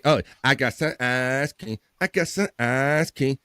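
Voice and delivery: Eddie Murphy bit, taunting. Retold or imitated. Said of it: "one of my favorite bits from Eddie Murphy".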